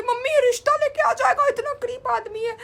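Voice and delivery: high, loud joke through laughter; laughing tease. Retold or imitated. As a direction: tease mom while cracking up. Joking to mom about waiter.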